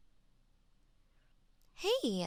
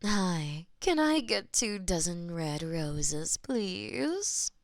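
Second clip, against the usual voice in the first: customer voice; 4 semitones lower, slower than usual. Acted.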